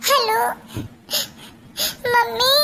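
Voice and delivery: tearful whimper into the phone; crying on the phone. Acted. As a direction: call mom while crying. Daughter calls mother crying. (रोते हुए phone पर)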